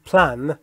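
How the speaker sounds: plan with one pure "a" vowel; British-style "plan" with a plain short a; British A sound. Shown as a demonstration.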